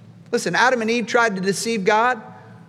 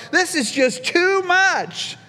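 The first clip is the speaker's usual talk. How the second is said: awestruck; 5 semitones higher than usual. Retold or imitated. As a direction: voice David overwhelmed by it all. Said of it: "he's just blown away".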